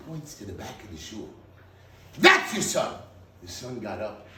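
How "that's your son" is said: higher, louder joyful announcement; excited reveal. Retold or imitated. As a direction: announce the son with triumph. Pointing out the son in shul.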